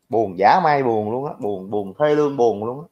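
slow, mock-sad lament; half-hearted show of sorrow; mock sadness. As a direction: play up being sad, slowing down. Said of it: "tao cũng buồn quá à".

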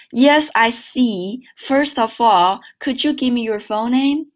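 slow model reading, "First of all" as one unit; linked sentence. Shown as a demonstration. Teacher leading another repeat, linked reading. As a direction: run "could you" together like "could-joo". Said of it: "连起来一遍啊".

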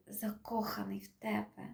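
hushed, breathy whispered translation; soft whisper. Acted. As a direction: whisper it like a love confession. Translating a love line softly.

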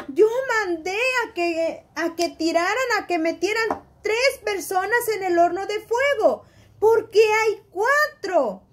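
the king can't believe his eyes; astonished king. Acted. King counting the men in the furnace, astonished. King sees a fourth man.

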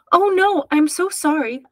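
high, flustered apology; alarmed apology. A narrator's reading. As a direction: blurt out a startled sorry, pitch jumping up. Startled apology while held over pool.

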